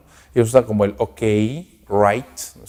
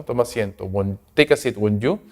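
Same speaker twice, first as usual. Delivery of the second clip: polite invitation; 5 dB quieter than usual. Shown as a demonstration. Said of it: "cuando hago un polite invitation".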